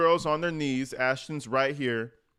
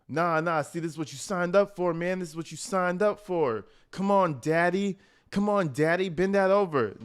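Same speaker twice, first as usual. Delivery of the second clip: higher-pitched mock coaxing; imitating a rapper/public; 5 semitones higher than usual. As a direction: imitate a pushy host who won't take no. Acting out host pressuring the guest.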